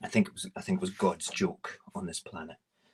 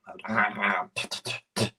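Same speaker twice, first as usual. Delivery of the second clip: laughing; 8 dB louder than usual. Real, not acted. Laughing while describing eating wasps.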